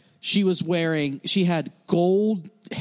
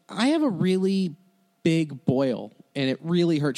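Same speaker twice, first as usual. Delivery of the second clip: reluctant admission. Retold or imitated. Touring comic admits a boil to the venue owner, reluctant. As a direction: own up to it haltingly, word by word.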